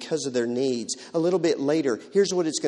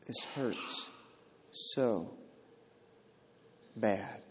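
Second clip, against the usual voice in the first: pained groan; 4 semitones lower, 8 dB quieter, much slower than usual. Acted. Voicing the groan of grief.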